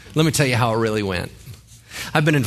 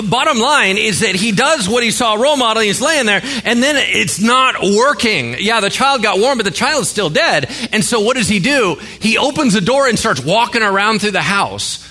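raised, higher preaching voice; preaching loud; 8 semitones higher, 4 dB louder than usual. Real, not acted. Preacher retelling Elisha, loud and high. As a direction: drive the story home loud.

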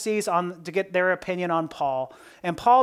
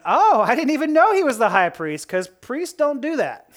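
sarcastic mock surprise, pitched higher; Paul; 5 semitones higher than usual. Paul answering about the high priest, very sarcastic. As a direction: feign innocence with a pointed, sarcastic lift. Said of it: "responding in a very sarcastic tone".

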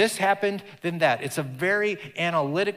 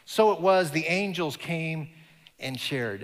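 storytelling voice. Shown as a demonstration. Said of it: "it's very conversational".

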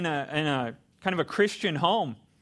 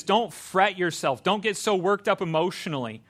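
calming them down. Retold or imitated. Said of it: "kind of calming us down".

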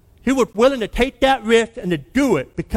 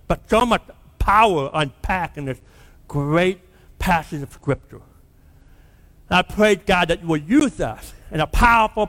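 earnest, measured pastor praying aloud; closing prayer. Acted. Pastor praying over his church at sermon's end, earnest prayer voice. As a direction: pray over the congregation, steady and sincere.

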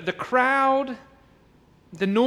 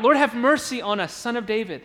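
crying out louder. Acted. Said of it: "they cried out all the more".

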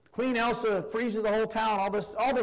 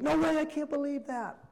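disbelief; 8 semitones higher than usual. Retold or imitated. Viewer reaction to movie twist.

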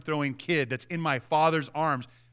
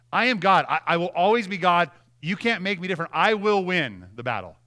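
God declaring himself; 3 semitones higher, 5 dB louder than usual. Retold or imitated. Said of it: "He's like".

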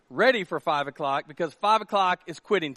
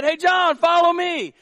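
higher, louder beckoning call; 9 semitones higher, 6 dB louder, slower than usual. Acted. Hippie to John in the parking lot, calling out. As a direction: call him over, raised voice. Hippie calls him to follow.

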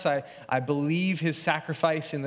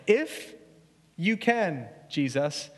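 incredulous; slower than usual. Retold or imitated. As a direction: echo the words back in disbelief. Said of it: "you can hear the expression of Jesus".

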